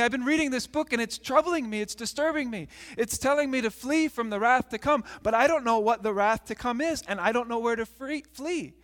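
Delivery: a touch of worried urgency; troubled pleading. Acted. Troubled man confides in family.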